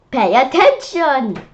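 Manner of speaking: loud sharp command; stern teacher. Acted. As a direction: snap him back to attention. Teacher scolding daydreamer.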